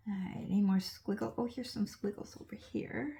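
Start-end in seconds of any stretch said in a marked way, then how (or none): 1.4-3.2 whisper. Real, not acted. Quiet aside while painting.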